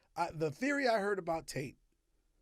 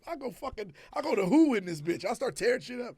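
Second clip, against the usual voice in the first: hammed-up raging threats, louder; belligerent drunk; 6 semitones higher, 11 dB louder than usual. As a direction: play a belligerent drunk tearing up the bar.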